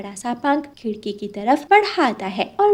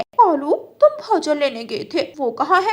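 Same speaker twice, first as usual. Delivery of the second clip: loud, high nagging demand; wife scolds her husband for not bringing food, loud and sharp; scolding wife; 5 semitones higher, 5 dB louder than usual. Acted.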